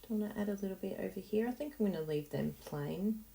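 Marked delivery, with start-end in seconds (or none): none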